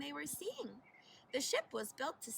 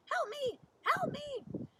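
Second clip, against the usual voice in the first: much higher, pleading cries; faint cries for help; 13 semitones higher, 5 dB louder, slower than usual. A narrator's reading. Tied-down sailor calls out for help, high and pleading. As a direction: cry out for help from far off.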